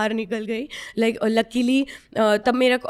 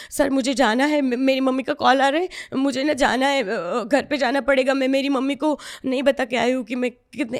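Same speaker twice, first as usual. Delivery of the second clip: panicked excuse; 3 semitones higher than usual. Retold or imitated. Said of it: "ऐसे, ऐसे react किया कि".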